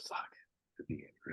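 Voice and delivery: hushed, breathy curse under the breath; whispered curse. Retold or imitated. Grumbling to himself at the VA, whispered. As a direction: mutter the curse to yourself in a whisper. Angry at arriving at the VA.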